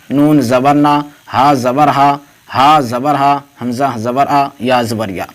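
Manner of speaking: each letter name, then zabar, then the vowel sound, spaced out; letter-by-letter drill. Shown as a demonstration. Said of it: "دیکھیے آ کی آواز نکل رہی ہے".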